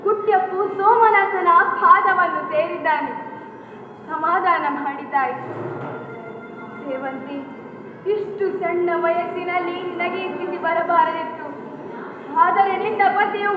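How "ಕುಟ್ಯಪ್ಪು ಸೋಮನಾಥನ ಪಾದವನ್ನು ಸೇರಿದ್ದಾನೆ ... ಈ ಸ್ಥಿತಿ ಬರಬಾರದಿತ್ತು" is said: low gentle soothing; consoling. Acted. Elder consoles the grieving mother, gently. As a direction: ease her grief softly.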